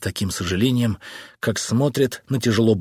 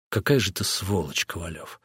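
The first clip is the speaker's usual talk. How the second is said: quiet, bitter, much softer; 4 semitones lower, 6 dB quieter than usual. Acted. Wife bitterly insulting her husband, quiet. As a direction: spit it out through hurt. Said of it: "с горечью ответила жена".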